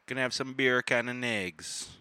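hammed-up Jamaican breakfast line; Jamaican accent. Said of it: "Kinda does sound pretty Jamaican".

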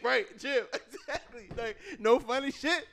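laughing hard, high-pitched; speaking through laughter. Real, not acted. Laughing mid-story.

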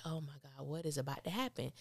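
half-whispered oh my God; hushed dread. Retold or imitated.

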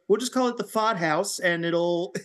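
lightly voiced Aussie bloke; a hint of an Australian twang; Australian accent impression. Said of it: "that was just my impression of you".

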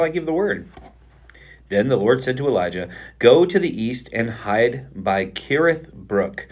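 measured Bible reading aloud; scripture reading. Acted. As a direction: read the passage steadily aloud.

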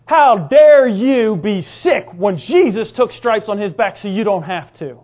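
loud, slow, indignant reprimand; retold stern rebuke. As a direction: scold as God, weighting each word. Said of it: "after he yelled at me".

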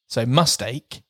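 "mustache" ending in "ache", "mus-TAKE". Shown as a demonstration. Host demoing the swap, mustache said like ache. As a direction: end "mustache" on the word ache. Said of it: "pronounced like ache".

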